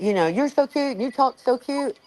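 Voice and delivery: high-pitched mock compliment, drawn out at the end; imitated admiring guy. Quoting the guy who liked her accent, high imitating voice. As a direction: put on a high voice, stretching the last words. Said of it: "The guy's like".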